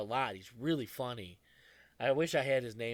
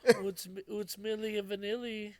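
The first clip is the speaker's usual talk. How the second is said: mock sarcasm; 7 semitones higher, slower than usual. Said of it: "I was like".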